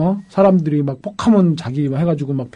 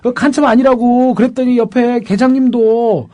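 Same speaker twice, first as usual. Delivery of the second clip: imitated high-pitched protest, pressing for an answer; raised-pitch, insistent retold challenge; indignant confrontation; 6 semitones higher than usual. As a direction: act out a defendant arguing with the prosecutor. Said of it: "막 삿대질하면서 따지고 막".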